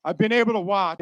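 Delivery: "watch" given emphasis; stress on watch. Real, not acted. Speaker to graduates seen on TV, stress on "watch". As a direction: lean on the word "watch". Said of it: "I'll emphasize the word watch".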